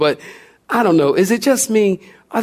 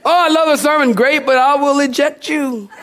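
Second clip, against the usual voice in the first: laughing mock summary; 8 semitones higher than usual. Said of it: "mock retelling".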